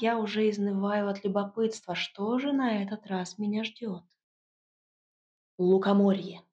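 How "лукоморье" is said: proclaimed with fanfare, louder; a magister's proud announcement; proclamation. A narrator's reading. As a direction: announce it loudly like a grand reveal. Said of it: "провозгласил магистр".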